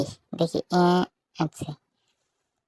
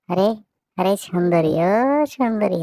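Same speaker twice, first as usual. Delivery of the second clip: yelling across the room; 3 semitones higher, 4 dB louder, slower than usual. Acted. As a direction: shout to get her attention. Calling out to a girl.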